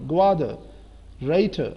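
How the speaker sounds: گوادر and رائٹر ending in schwa; silent final r. Shown as a demonstration. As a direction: say گوادر and رائٹر without their last r. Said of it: "joker نہیں ہوگا".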